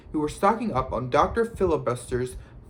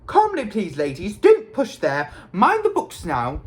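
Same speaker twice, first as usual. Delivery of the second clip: raised voice, high and loud; harassed doorman; 6 semitones higher, 5 dB louder than usual. A narrator's reading. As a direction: call out crowd control, harassed. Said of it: "A harassed-looking wizard".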